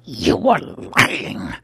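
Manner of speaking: slow, loud, cold accusation. Acted. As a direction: accuse him flatly and slowly. Albino accuses.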